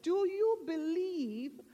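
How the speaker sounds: lightly voiced heavenly questioner; measured question from above. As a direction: ask it solemnly, with spaced-out phrases. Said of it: "the voice came back and said".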